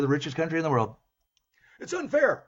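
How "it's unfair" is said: much higher, mocking whiny complaint; mock whine. Mocking his lefty students, high whiny parody.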